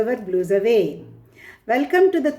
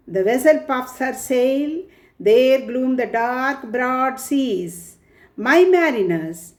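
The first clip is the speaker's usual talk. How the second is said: poem recitation. Acted. Ulysses addressing his mariners at the port, in measured recitation. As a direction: recite it line by line, deliberately.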